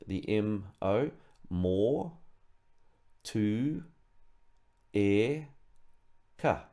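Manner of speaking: Motueka said syllable by syllable, mo, tu, e, ka; broken into syllables. Shown as a demonstration. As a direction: slowly split Motueka into its syllables. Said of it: "if we break it down".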